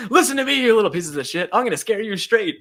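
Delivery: loud imitation of a scolding; Wolverine yelling. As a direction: tear into the kids, hammed up. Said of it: "Wolverine's literally yelling at the gang".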